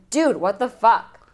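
same line echoed back flatly; parroting his words. Retold or imitated. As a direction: repeat it like a puppet fed lines. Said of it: "And she goes".

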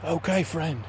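lightly voiced friendly adventurer; a hint of a lilting oddball; Kiwi Shavers character. Adventurer showing his recorder to the ranger, lightly put-on voice.

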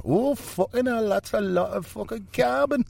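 high, cartoonish ticker voice; a carbon ticker swearing at the count; talking ticker. A ticker shocked at the carbon total. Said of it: "the little ticker's going".

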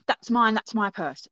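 snatch it back, insistently; urgent claim. Retold or imitated. Lady rushing up to reclaim her purse, urgent.

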